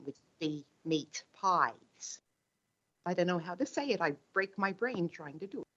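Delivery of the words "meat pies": attempted Australian "meat pies", drawn out slowly; tentative go at an Australian accent; Aussie accent. Shown as a demonstration. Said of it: "in an Aussie accent".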